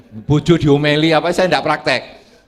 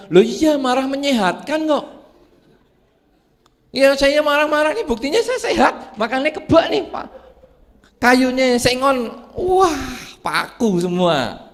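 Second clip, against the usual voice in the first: boastful grumpy man; 9 semitones higher than usual. Retold or imitated. Angry man voiced boasting.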